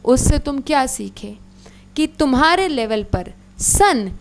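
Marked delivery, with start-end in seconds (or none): 3.6-4.1 drawn-out summary, word by word; slow it right down for notes; teacher summing up the lesson, very slowly; slow dictation. Shown as a demonstration. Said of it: "तो अभी मैंने जो बोला".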